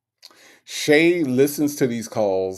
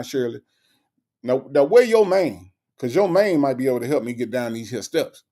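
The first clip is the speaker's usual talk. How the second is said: higher, winded comic complaint; Steve Harvey impression; 3 semitones higher than usual. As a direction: plead for help getting down the steps. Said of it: "this Steve Harvey".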